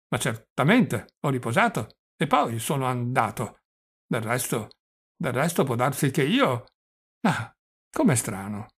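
put-on mildly muddled old man, halting; doddering old prince, confused. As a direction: lose the thread like a befuddled old prince. (vecchio principe un po' confuso, esitante)

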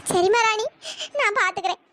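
a choked agreement; teary, resigned yes; tearful. Acted. (கண்ணீருடன் சம்மதம்)

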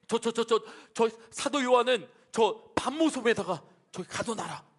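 mock frightened stammer; trembling fear. Startled emperor orders John locked away, trembling. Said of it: "벌벌벌벌 떨면서".

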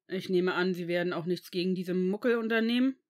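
loud, tightly strained question; forced out. A narrator's reading. Severus challenges the headmaster about the Muggles, pressed out. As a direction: press the words out in anger. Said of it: "presste Severus hervor".

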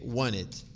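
"Want it" blended into "wanit"; Americanized pronunciation. Shown as a demonstration. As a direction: say "Want it" as one linked word, no T after N. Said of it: "Vai ficar alguma coisa assim". ("Want it" junto, como "wanit")

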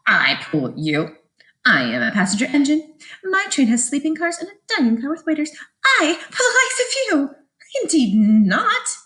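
a hint of a proud passenger engine; snooty engine. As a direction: look down your nose at them.

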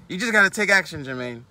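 mocking sing-song of the advice he hates; parroting a preachy guru; mocking imitation.

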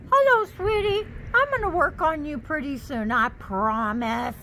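high, sweet coo to a little plant. Real, not acted. Cooing to a plant.

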